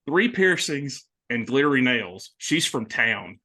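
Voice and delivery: lightly imitated Southern accent; a touch of Southern twang, slowing at the end. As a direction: mimic a film character's Southern twang. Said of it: "when she has such a twang".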